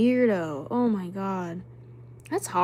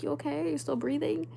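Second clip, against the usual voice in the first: higher, slightly soft check-in; checking on her; 5 semitones higher, 3 dB quieter than usual. Retold or imitated. Aunt to her napping niece, gently concerned. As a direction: ask it like peeking at a napping baby.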